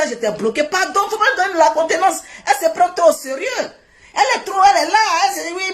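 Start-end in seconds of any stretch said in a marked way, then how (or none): 2.5-5.7 mocking laugh. Real, not acted. Mocking rival, laughs heard.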